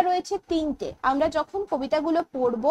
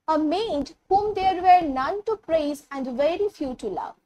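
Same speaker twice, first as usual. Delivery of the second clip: very slow, word by word; teacher reading the poem aloud, very slow; slow poem recitation; much slower than usual. Shown as a demonstration. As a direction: recite it as verse for the class.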